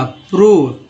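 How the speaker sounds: प्रूव with a long oo and a falling tune; प्रूव demonstrated for the class; model word. Shown as a demonstration. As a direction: stress the oo in प्रूव. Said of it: "ओ का उच्चारण ऊ हुआ".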